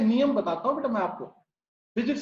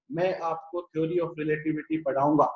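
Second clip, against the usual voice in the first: lower-pitched take; 5 semitones lower than usual. Shown as a demonstration. Teacher showing students a second pitch, lower. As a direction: say "मैं आपको theory of relativity पढ़ाऊंगा" in a lower voice. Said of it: "तो दोनों की frequency क्या होगी बेटा".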